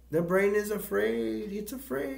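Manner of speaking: very high, rising imitated announcement; mock proclamation. Carl announcing to everyone after touching the brain, high mock proclamation.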